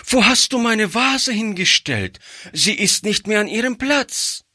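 put-on high anxious little girl's voice; alarmed child. A narrator's reading. Girl finds her mother's vase missing, high alarmed child voice. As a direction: ask in a worried child's voice. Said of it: "rief das Kind erschrocken".

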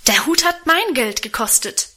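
the gentle daughter finally snapping at her father; beside herself. Acted. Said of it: "rief sie außer sich". (außer sich, höher und lauter)

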